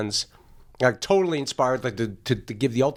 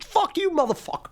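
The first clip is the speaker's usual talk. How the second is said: much higher, wild mock snarl; mock fury. Snarling at the classmate during the improv fight, high hammed-up rage. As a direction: fling it at him in a hammed-up rage.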